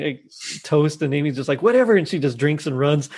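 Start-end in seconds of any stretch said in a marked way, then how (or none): 1.6-1.9 higher, dismissive retold quote; mock dismissive. Amy cutting short Holt's long toast, mock dismissive. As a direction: brush it off in a raised voice.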